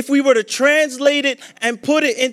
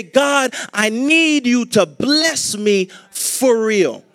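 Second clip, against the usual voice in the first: earnest plea; 4 dB louder, slower than usual. Pretend. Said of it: "they'll say".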